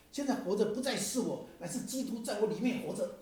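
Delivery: reading scripture with rising fervor, high and loud; fervent reading. Retold or imitated. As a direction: read it like it lights you up. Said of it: "越读越有劲啊".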